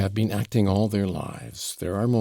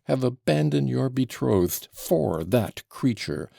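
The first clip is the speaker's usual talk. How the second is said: spluttering rant; 3 semitones higher than usual. Acted. Old father ranting at his son, breathless. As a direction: keep spluttering at him. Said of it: "breathless and spluttering".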